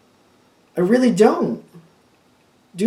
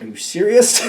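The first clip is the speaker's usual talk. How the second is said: higher, incredulous question; annoyed disbelief; 3 semitones higher, 3 dB louder than usual. Acted. Reader reacting to the unfair card story, annoyed disbelief. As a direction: ask it in mildly exasperated disbelief. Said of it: "this is really annoying".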